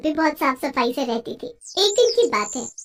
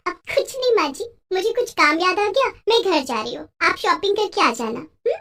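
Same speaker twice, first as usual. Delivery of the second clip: hurried bahu excuse; 4 semitones higher than usual. Acted. Daughter-in-law makes an excuse.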